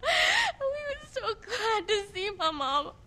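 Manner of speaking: slow, half laughing half crying; a kid laughing through tears; tearful child. Acted. Child sobbing about dead mama.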